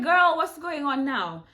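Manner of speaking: slow, loud and high, what is going on; startled check-in with a worried friend; alarmed girl. Retold or imitated. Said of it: "I'm like".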